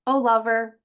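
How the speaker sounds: declaimed love sonnet, projected openings to lines; poetry reading. Acted. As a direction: read it out as a poem to an audience. Reads own sonnet aloud.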